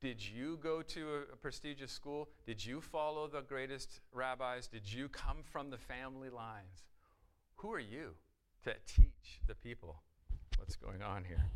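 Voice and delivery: indignant challenge that swells to a loud burst at the end; lightly voiced scornful leaders, building to a loud demand; voicing the Sadducees. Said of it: "The Sadducees are saying the same thing".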